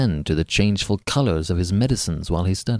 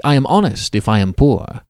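louder, indignant protest; heated retort; 3 semitones higher, 6 dB louder than usual. Acted. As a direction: snap back with wounded pride. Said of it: "I replied hastily".

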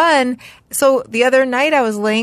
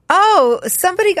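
imitating a bad liar, pitched high; voice up an octave; 10 semitones higher than usual. Mother imitates son lying in a game, voice jumping high. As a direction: overdo it in a high, innocent voice. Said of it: "his voice had gone up an octave".

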